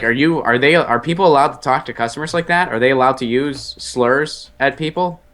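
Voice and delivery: high, incredulous complaint; retold indignation. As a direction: replay an outraged appeal to staff. Retold complaint to busboy about slurs.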